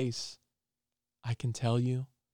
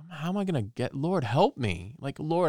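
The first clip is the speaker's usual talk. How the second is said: higher, pleading prayer to the Lord; crying out; 5 semitones higher than usual. Retold or imitated. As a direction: plead upward, desperate for help. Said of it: "I'm crying out".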